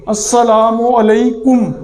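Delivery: "السلام علیکم" slow, with a pesh on kaf, alaikum; careful pronunciation. Shown as a demonstration. Teacher modelling "السلام علیکم" slowly, with the pesh on kaf. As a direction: stretch "علیکم" and round the kaf. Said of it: "کاف کے اوپر پیش ہے".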